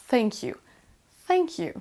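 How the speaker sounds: "thank you" with tongue tip at the teeth for TH; correct English TH. Shown as a demonstration. Teacher practises with learners, "thank you" with tongue on the teeth. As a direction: model "thank you" with a careful TH. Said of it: "mettez votre langue au niveau de vos dents".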